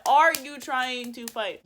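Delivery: slow, loud, word-by-word demand; acted-out deliberate confrontation; emphatic angry challenge. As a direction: spell out the challenge slowly and loudly. Repeated challenge, more deliberate.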